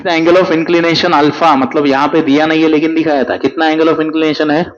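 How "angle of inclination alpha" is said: slow dictation reading. Acted. Reading question aloud slowly.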